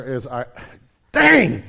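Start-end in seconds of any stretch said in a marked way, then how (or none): 1.1-1.6 loud, high burst of surprise; surprised exclamation. Real, not acted. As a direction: blurt it out, caught off guard. Sudden realization mid-story.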